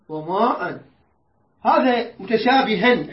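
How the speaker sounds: slow هذا متشابها ending on a long a; recited. Shown as a demonstration. Teacher modelling the pausal reading. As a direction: recite it slowly with a held final vowel. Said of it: "اقراها يا بالله".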